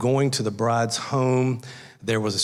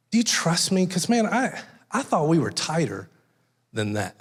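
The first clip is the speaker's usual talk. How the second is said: hurt groom; 3 semitones higher than usual. Acted. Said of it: "that's the feeling of that story".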